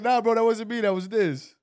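loud, high quoted bro. Retold or imitated. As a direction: shout it like a buddy. Acting out Rafizi's reply.

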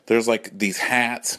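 ordinary delivery

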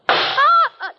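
sharp, high gasp of shock; a startled high gasp; horrified gasp. Acted. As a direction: suck in air at the sight of the body. Wife finds the woman dead.

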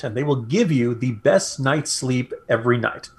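measured sponsor pitch, key words stretched; ad read. Real, not acted. Host pitching premium pillows to radio listeners, ad read. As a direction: sell it like a radio sponsor spot.

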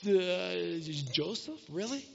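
hushed, stunned double take; stunned disbelief. Acted. Brothers staring at Joseph in quiet stunned disbelief. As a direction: barely get the words out in shock. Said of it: "They're like".

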